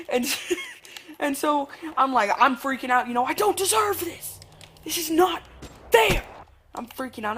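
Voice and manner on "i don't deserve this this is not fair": put-on high, drawn-out childish protest, building louder; mock tantrum climbing to a loud last word; imitated screaming protest. Freaking-out kid protesting to mom, high mock screaming. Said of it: "I'm screaming at my mom".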